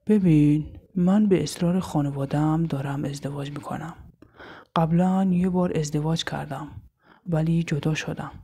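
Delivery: lightly deepened man, grave and matter-of-fact; a hint of a stern groom laying down terms; serious husband.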